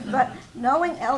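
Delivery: words spoken through laughter; amused, laughing delivery. Real, not acted. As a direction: still laughing as you say it. Still laughing after the laugh.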